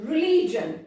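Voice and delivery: रिलीजन ending in jun, not gion. Shown as a demonstration. Teacher modelling religion for students. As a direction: finish रिलीजन on a short jun. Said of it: "रिलीजन में देखो जीआईओएन".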